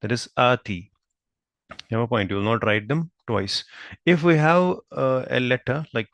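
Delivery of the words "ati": first vowel of "ati" held long; "ati" with a lengthened initial aa; stretched vowel. Shown as a demonstration. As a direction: draw out the opening a of "ati". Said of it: "stretch up to one alif".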